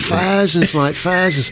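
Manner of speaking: thousands said faʊzənz, TH as F, cockney; cockney impression. Mocking workmate's cockney TH as F. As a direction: say thousands as fousands, cockney style. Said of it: "he speaks like he's a total cockney".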